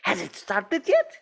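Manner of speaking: lightly put-on Russian accent; a deliberately bad Russian accent, only hinted at. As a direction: councillor interjecting in a faint mock Russian accent. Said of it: "bad Russian accents".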